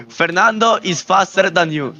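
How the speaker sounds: put-on Italian accent. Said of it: "Please say it".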